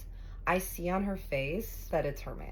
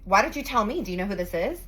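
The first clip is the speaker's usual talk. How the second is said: upset demand; 4 semitones higher, 6 dB louder, faster than usual. Retold or imitated. Fiance confronts him.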